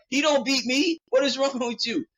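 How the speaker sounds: indignant. Retold or imitated. Pilar defending him against Pet, high indignant shout. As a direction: snap back in outrage. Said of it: "Pilar's like".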